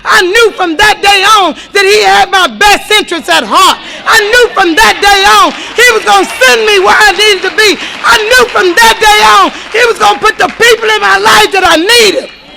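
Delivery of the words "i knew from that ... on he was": crying. Real, not acted. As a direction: voice cracking with tears. Emotional testimony about God's care.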